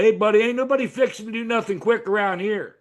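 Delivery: imitating a Southern clerk's drawl. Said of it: "southern drawl and the southern accent".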